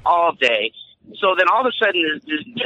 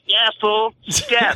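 dismissive dare; 5 semitones higher, much slower than usual. Retold or imitated. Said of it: "she's just like".

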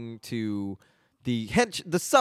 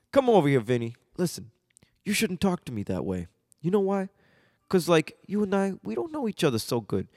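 Gino; 5 semitones higher than usual. Acted. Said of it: "you know, Gino's coming over".

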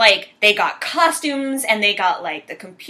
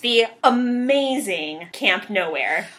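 trailer title reveal; slower than usual. Acted. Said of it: "trailer title reveal".

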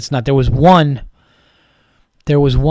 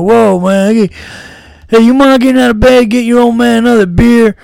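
high, loud hick voice; redneck wrestling fan dad; 9 semitones higher, 9 dB louder than usual. Retold or imitated. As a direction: ham up a loud redneck dad calling his son. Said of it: "he's like".

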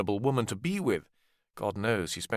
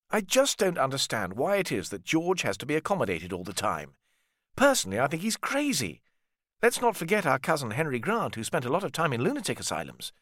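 lightly higher, exasperated brother; Richard; 3 semitones higher than usual. Acted. Richard complains about George to his family, lightly higher exasperated.

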